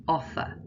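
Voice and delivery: "offer" with the weight on OFF; careful demo of OFF-er; stress on first syllable. Shown as a demonstration. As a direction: stress the start of "offer", let the ending go weak. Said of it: "the first syllable is stressed".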